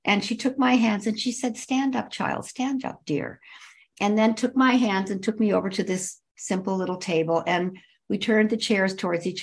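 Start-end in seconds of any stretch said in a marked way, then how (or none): 1.6-3.4 soft, tender, fading to a whisper on dear; gentle reassuring Mother Teresa. Retold or imitated. Mother Teresa gently telling the kneeling visitor to stand, soft and tender. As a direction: lift them up kindly, ending in a whisper.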